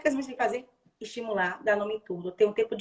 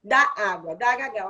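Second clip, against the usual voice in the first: louder, clearly set-apart "dá água"; model phrase; 2 semitones lower, 5 dB louder, slower than usual. Shown as a demonstration. Therapist showing the phrase mothers should repeat, emphatic. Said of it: "usar primeiro a mesma frase".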